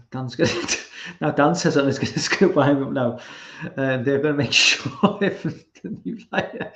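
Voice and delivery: amused, words interrupted by laughter; laughing while reading. Real, not acted. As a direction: break into real laughter mid-sentence. Reading a viewer's teasing comment, laughing.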